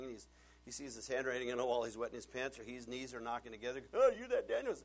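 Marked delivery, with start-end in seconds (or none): 3.9-4.7 high, loud and sneering; mocking young king. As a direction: talk down to the old man. Young king confronts old Daniel.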